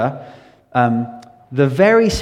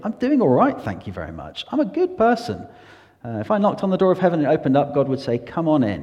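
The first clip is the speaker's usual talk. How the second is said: higher, complacent self-satisfied person; mock a self-righteous man pleased with himself, pitched up; smug self-righteous voice; 6 semitones higher than usual. People who think.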